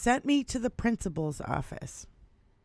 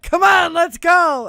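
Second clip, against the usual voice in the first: loud, high, curt command; dad's loud order; 8 semitones higher, 10 dB louder than usual. Retold or imitated. Father ordering his son out of school, loud. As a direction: bark it at your kid to get moving. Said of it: "he's like".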